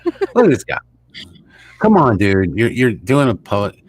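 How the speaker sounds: high, loud mocking jeer at the prime minister; scoffing at a politician on screen, high and loud; mocking disbelief. Real, not acted. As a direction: ridicule him out loud, voice way up.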